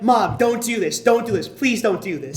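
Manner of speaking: embarrassed daughters' plea, lightly acted; imitated pleading. Daughters to their haggling mom, imitated pleading. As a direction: beg her to stop, in mock distress.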